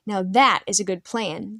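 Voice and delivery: slow, weighty approval; emphatic. A narrator's reading. Old man approving the boy's plan, slow and emphatic. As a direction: lean on every word, slowly. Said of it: "the ancient said emphatically".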